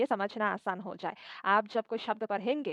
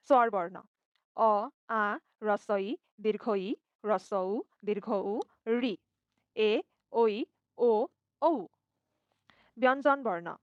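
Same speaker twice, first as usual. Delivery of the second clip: reciting letter names; slower than usual. Shown as a demonstration. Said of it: "नामों से इनको पढ़ूँगी".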